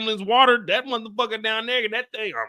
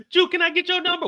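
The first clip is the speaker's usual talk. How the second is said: laughing; 10 semitones higher, faster than usual. Shown as a demonstration.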